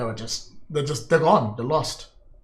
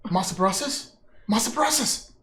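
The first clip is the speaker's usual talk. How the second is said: calling out, building to a shout; 13 semitones higher, 6 dB louder than usual. Acted. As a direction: call louder and louder for him. NPC calling out, rising.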